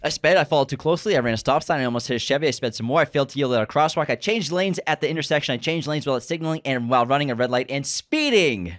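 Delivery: lightly voiced driver confessing; a hint of a frantic confession; acted movie line. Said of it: "Let me say one of the lines over again".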